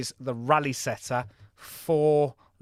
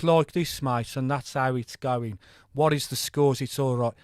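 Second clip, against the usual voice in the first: broad Birmingham accent, put on and a bit louder; mock Brummie accent; 3 dB louder than usual. Streamer mocking how people think Brummies talk, broad Birmingham accent. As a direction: ham up a Brummie lad chatting about the scores. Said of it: "people think that all Brummies speak".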